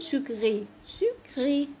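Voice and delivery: "سكري" slowly, ending in é; French pronunciation demo. Shown as a demonstration. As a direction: model "سكري" with a silent final t. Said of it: "اخرها او تي".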